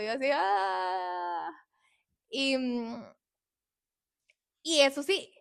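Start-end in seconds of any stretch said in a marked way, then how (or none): 0.3-1.5 sobbing sigh. Retold or imitated. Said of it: "yo iba llorando en todo eso".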